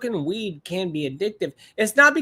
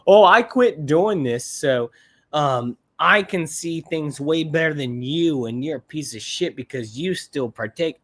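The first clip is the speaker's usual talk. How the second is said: mocking smug quitter. Mocking people who quit and look down, smug and slow. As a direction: sneer it like a self-righteous ex-smoker. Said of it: "those people who are like".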